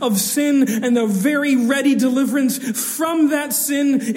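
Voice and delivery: rising, forceful preacher's voice; impassioned preaching. Acted. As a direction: build the point with fervor.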